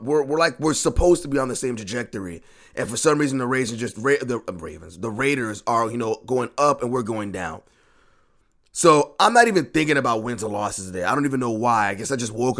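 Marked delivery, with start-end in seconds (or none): none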